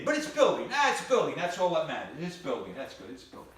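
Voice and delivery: convince yourself, losing steam; fading optimism. Retold or imitated. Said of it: "He says".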